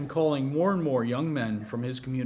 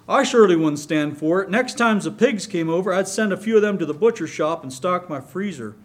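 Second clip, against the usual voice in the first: emphatic; 4 semitones higher, 6 dB louder than usual. A narrator's reading. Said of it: "he finished with a hearty laugh".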